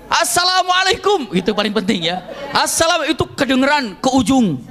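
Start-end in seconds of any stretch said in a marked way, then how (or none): 0.1-1.3 higher, drawn-out greeting; shouted greeting. Shown as a demonstration. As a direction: greet someone far away, slowly. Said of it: "Kalau teriak misalnya".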